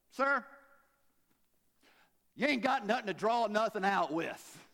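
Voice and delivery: high, indignant sassy woman; sassy incredulity. Acted. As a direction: scoff loudly at an absurd offer. Acts out woman's incredulous retort to Jesus.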